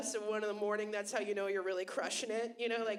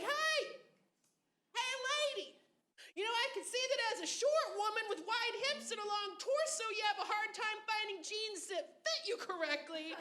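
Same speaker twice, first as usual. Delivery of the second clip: higher, earnest street shout turned sweet; sincere catcaller; 10 semitones higher than usual. Retold or imitated. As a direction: call out like you truly mean the compliment. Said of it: "just something like".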